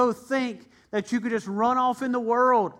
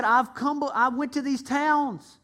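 higher, earnest and grieved; Jesus recounting his miracles to the towns; Jesus lamenting; 4 semitones higher than usual. Acted. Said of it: "He said".

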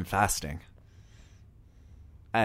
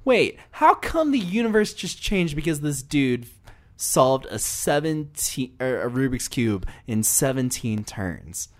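very high, loud opening, easing down as the questions pile up; exaggerated, high-pitched bewilderment; baffled outburst; 7 semitones higher, 5 dB louder than usual. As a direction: act out a confused reader demanding answers. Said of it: "Yeah, I'm like".

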